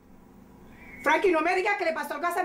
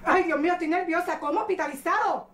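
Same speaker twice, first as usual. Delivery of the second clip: nervous panic. Acted. Madre nerviosa pide el pasaje.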